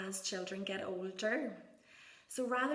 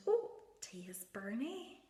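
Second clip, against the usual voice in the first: put-on playful commentary to child; 3 semitones higher than usual. Shown as a demonstration. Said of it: "you can talk about pouring tea".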